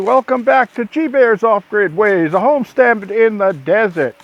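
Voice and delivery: winded, breathing hard; breathless from hard work. Real, not acted. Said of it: "I'm out of breath".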